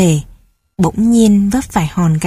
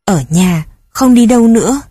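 angry mother; 3 dB louder than usual. Acted. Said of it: "Mẹ lại điên tiết lên".

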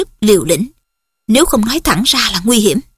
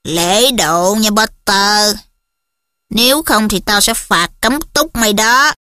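slow, lazy drawl; slower than usual. Acted. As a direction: draw the words out lazily. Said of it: "Malfoy cất giọng lè nhè".

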